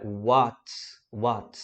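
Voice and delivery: what with the A pulled toward O; teacher modeling "what" with a neutral A; demo pronunciation. Shown as a demonstration. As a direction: say "what" as "wot", A rounded toward O. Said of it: "ao invés de você falar pra um A extremamente aberto".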